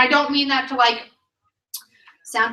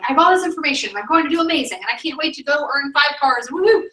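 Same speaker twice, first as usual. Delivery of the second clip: higher and louder, pumped new consultant cheering; mock excitement; 5 semitones higher, 5 dB louder than usual. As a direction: play up the giddy rookie hype, ending in a whoop. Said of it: "Stage one is excitement and enthusiasm".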